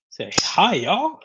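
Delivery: put-on playful Southern-style greeting accent; put-on y'all accent. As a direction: greet them with a light y'all drawl accent. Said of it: "I gave you an accent".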